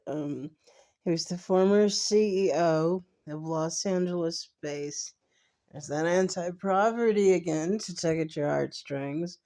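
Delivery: sleepy, heavy groggy voice. Real, not acted. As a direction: read it like you just woke up. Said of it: "I just put this in a groggy voice".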